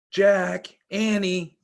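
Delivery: loud high calling from far; distant cry. Acted. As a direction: call out across the woods. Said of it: "came the distant cry again".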